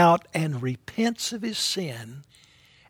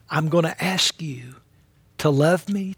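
whispered prayer. Acted. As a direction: pray it under your breath. Listener's suggested prayer to Jesus.

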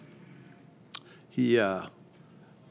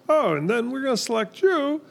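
mock mob boss voice; 12 semitones higher than usual. Mocking the mob bosses' orders.

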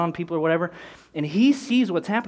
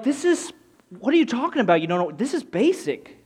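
retold exasperation; 5 semitones higher than usual. Pastor's retold exasperated look.

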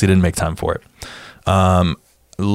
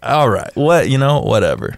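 mock sarcastic brush-off, starting higher; 4 semitones higher than usual. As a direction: wave it away with sarcasm. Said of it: "being sarcastic and being like".

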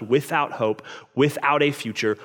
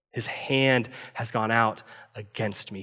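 slow, breathy whisper of despair; whispered lament; 2 semitones lower, 5 dB quieter, slower than usual. Retold or imitated. Naomi confessing God's hand is against her, whispered. Voicing Naomi's bitter grief.

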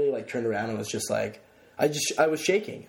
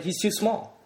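high, disbelieving "too small" with "too" rising; squeaky incredulous protest; incredulous claim; 9 semitones higher, slower than usual. Retold or imitated. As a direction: insist he's too small, pitched way up. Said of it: "I kept claiming it".

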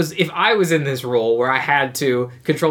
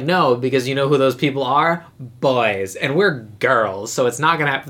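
lightly voiced Taylor, confident and dismissive; 3 semitones lower than usual. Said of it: "that's my Taylor voice".

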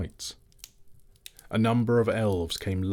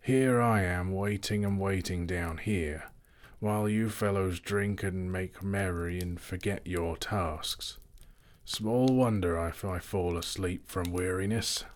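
put-on grumbling old butler; 3 dB quieter than usual.

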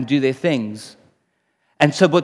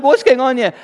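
higher, incredulous question; mock bewilderment; 7 semitones higher, 5 dB louder than usual. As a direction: act out a baffled reaction. Preacher acts out his bewildered reaction.

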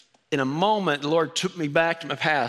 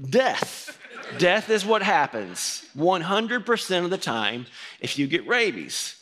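high doom-laden pronouncement, slow; mock grave laughing announcement; dramatic ominous answer; 4 semitones higher, slower than usual. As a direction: read the verdict like a movie trailer. Quoting Google answer dramatically.

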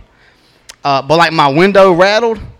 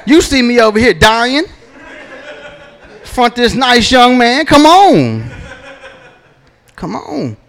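desperate dad; 6 semitones higher than usual. Retold or imitated. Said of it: "I said".

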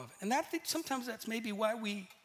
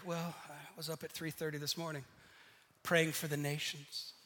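humble brag; 6 semitones lower, 7 dB quieter than usual. Retold or imitated. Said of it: "humble bragging".

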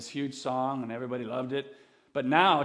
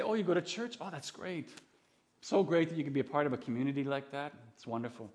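softly approving, mock-friendly; light, soft small-talk approval; polite approval; 5 dB quieter than usual. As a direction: voice an agreeable acquaintance, gently. Acts out politely approving average person.

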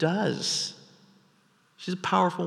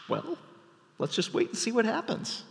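mock shrug; 7 semitones higher, 7 dB quieter than usual. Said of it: "was he like".

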